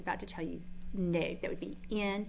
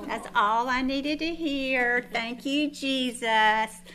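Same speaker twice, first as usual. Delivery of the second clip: slow, louder, beaming thanks; overjoyed mother thanking Jesus; joyful relief; 4 dB louder, much slower than usual. Retold or imitated. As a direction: savour it like sweet relief. Relieved joyful reaction to son.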